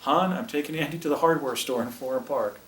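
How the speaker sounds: yelling to mom. Retold or imitated. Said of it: "He yells out to my mom".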